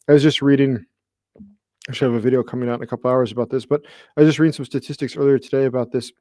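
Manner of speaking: rough, worn-out speaking voice; hoarse voice. Real, not acted. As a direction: voice going hoarse and raspy. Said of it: "I'm losing my voice again".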